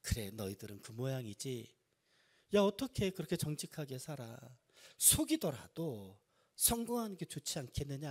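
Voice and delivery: lightly acted jeer at believers; a touch of scoffing, as a quoted taunt; mock sneering. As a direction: imitate someone sneering, with restraint. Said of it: "비아냥거리면서".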